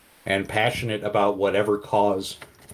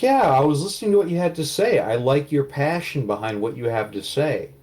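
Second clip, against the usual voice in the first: admiring stranger; 5 semitones higher than usual. Acted. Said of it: "You're like".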